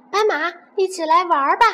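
calling out. Acted. Animals calling out to zebra.

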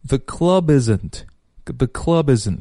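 club and isn't run together as one word, slowly; 连读示范. Shown as a demonstration. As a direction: link "club isn't" into "clu-bisn't", drawn out slow. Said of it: "首先来看连读". (把club和isn't慢慢连起来读)

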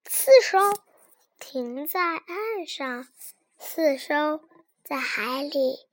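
put-on reading to a toddler. Slow storybook narration of boats.

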